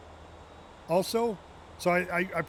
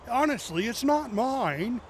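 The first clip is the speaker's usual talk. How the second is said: slow, drawn-out innocent denial; movie quote; 5 semitones higher, slower than usual. Retold or imitated. Quoting Austin Powers to chat, slow mock denial. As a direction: say it slow like you're caught red-handed. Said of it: "Austin Powers scene".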